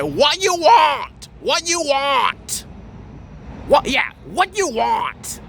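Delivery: mocking the rude shopkeeper's greeting; mock Asian accent. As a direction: drag out a blunt accented what you want. Mimicking rude Asian shop lady.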